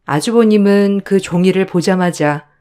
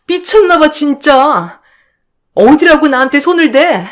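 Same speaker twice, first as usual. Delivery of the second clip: higher, contemptuous accusing voice; scornful sister-in-law; 8 semitones higher, 4 dB louder than usual. Acted. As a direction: sneer down at the younger in-law. 형님 outraged in the fight. (높고 비아냥대는 형님 목소리)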